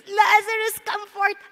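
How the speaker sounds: a hint of the commanding cry; understated summons; mild retold shout. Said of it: "kaya ganun na lamang sumigaw si Jesus".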